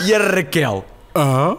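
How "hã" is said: mock stunned 'huh', louder; hammed-up bafflement; acted astonishment. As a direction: blurt it out open-mouthed. Raquel open-mouthed in astonishment.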